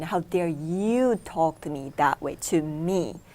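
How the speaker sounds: imitating her own angry thought at a rude client; mock offended outrage. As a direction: act out the offended ego, a little hammed-up. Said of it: "what I was thinking".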